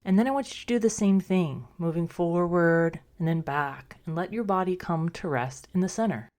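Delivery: calm, unhurried meditation guide with long pauses; guided meditation. Acted. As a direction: gently talk listeners into rest, a little softly. Leads a meditation.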